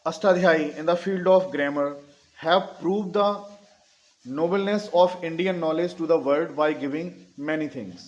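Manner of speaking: slow, deliberate dictation in phrases. Shown as a demonstration. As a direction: read it out slowly for note-takers. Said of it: "धीरे धीरे बोल रहा हूँ". (धीरे-धीरे इमला बोलते हुए)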